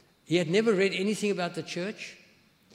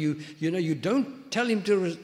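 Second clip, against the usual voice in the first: retold shouting; 3 semitones higher, 5 dB louder than usual. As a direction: imitate an upset caller scolding. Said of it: "He was shouting at me".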